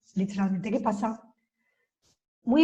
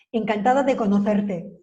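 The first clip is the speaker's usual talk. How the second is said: run-together words; 4 dB louder than usual. Shown as a demonstration. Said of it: "no paramos".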